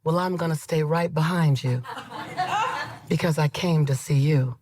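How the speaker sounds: low, measured regal reply; regal woman. Retold or imitated. Regal woman promising to follow the speaker, stately. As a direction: answer low and stately, with pauses. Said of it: "she was regal".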